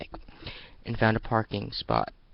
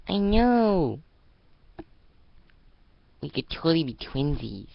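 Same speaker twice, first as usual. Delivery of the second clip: high, loud delighted gush; beaming; 7 semitones higher, 6 dB louder than usual. Acted. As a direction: bubble over with joy. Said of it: "she beamed".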